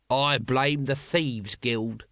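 grumbling Nobby. Acted.

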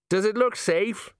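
high, slow frightened plea; scared. Acted. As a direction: ask it in high panic. Colon scared on roof.

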